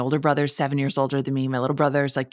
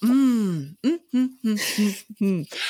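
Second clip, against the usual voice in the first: mock delight; 6 semitones higher, much slower than usual. Fake delight unwrapping each piece.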